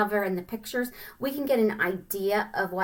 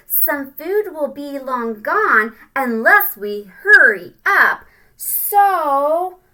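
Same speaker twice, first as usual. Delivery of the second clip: loud, slow pushy urging; urgent ant; 4 semitones higher, 9 dB louder, slower than usual. Acted. Littlest ant urging the others to hurry, loud. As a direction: hurry them along, loudly.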